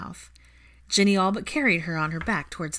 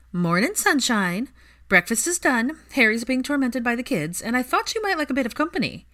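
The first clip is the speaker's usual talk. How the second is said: bright cheerful greeting; 7 semitones higher, 5 dB louder than usual. Acted. Ginny cheerfully barging in.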